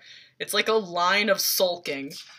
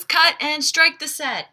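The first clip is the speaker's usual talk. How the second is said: barked order; 9 semitones higher, 5 dB louder than usual. Retold or imitated. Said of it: "Gustavo says".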